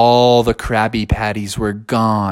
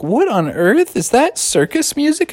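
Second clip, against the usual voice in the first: high, puzzled frog voice; baffled Froggy; 11 semitones higher than usual. Acted. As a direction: ask in rising disbelief. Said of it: "And Froggy was like".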